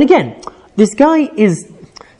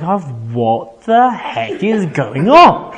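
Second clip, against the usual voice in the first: slow, laughing mock bafflement; hammed-up confused onlookers, chuckling through it; bewildered Philistines; much slower than usual. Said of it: "the Plishtim are basically going like".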